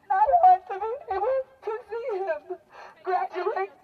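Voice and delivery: real sobbing, pitch up and breaking; pushing words through actual tears; crying. Real, not acted. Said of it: "I am crying because".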